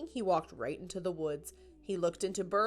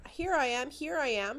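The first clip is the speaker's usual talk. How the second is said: shouting; 7 semitones higher than usual. A narrator's reading. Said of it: "Franklin shouted over and over".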